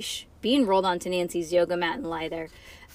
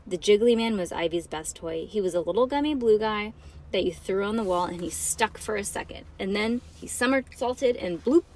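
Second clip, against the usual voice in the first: put-on dramatic read-aloud for children; story narration. A narrator's reading.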